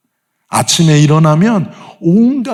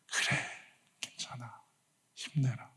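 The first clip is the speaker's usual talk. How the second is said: soft, unvoiced whisper of comfort; 20 dB quieter than usual. Pastor gently comforts the tearful friend, whispering. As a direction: hush them like a tender blessing.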